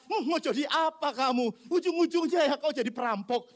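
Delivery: lightly acted parental scolding; judgmental parent. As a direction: pass judgment on a failed child, without raising the volume. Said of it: "jangan hakimi dia lalu berkata". (omelan orang tua yang menghakimi)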